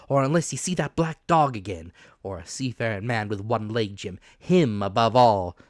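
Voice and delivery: put-on rough, loud old pirate captain; hoarse pirate captain voice; old sea captain. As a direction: growl it out like a dying buccaneer. Captain confides to Jim.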